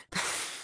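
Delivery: soft scoffing chuckle; brief dry laugh under the breath; short quiet laugh. Acted. Laugh before defying the listener.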